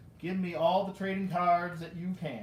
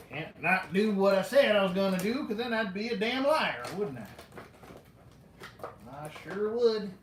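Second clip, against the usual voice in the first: louder put-on southern accent; 4 dB louder than usual. Collector promising to open everything, playful southern accent. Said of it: "always go to that southern voice".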